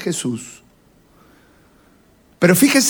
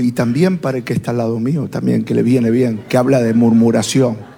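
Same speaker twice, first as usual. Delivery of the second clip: laughing aside; 7 semitones lower than usual. Retold or imitated. Joking about the neighbour.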